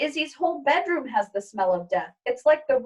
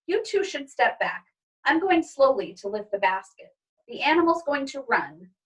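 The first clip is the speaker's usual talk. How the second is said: higher, careful instructing father; father's voice; 4 semitones higher than usual. Acted. Father warning wife and daughter, lightly voiced. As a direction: warn them gently back.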